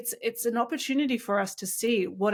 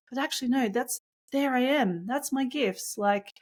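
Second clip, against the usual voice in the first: higher-pitched, insistent encouragement to oneself; emphatic self-affirmation; 4 semitones higher than usual. Acted. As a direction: talk yourself into owning it, pitch lifted. Acting out an affirming self-talk.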